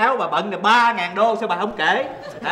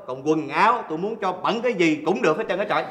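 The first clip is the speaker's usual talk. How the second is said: usual speaking voice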